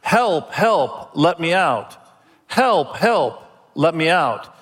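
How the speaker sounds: a hint of a bird squawking help, help; parrot mimicking a woman's cry. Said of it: "they heard".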